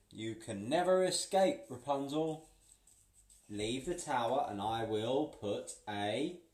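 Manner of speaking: loud cackling witch threat; witch threatening. Acted. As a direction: sneer it like a wicked witch. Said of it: "The witch cackled".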